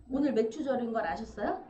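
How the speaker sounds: loud teasing repeat with a rise. Real, not acted. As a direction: press the question on her a second time. Repeats question louder to deacon.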